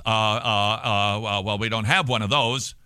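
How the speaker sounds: stammering, lightly acted fluster; mock flustered. Imitating Christians challenged by atheists, flustered stammer. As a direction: stall on repeated uhs, imitating someone caught off guard. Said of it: "they get put on their heels".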